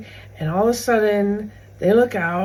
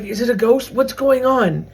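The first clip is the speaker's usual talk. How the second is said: mock panic, raised and a little loud; freaking out; 3 semitones higher, 5 dB louder than usual. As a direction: imitate disciples in a mild panic. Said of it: "they're freaking out".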